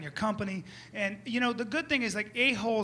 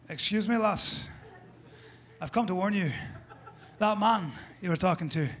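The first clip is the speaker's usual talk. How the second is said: put-on Scottish accent. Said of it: "that weird accent".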